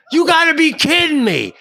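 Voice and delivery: high, loud cry of disbelief; screaming. Retold or imitated. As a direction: scream it in exasperation. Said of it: "I'm screaming at him".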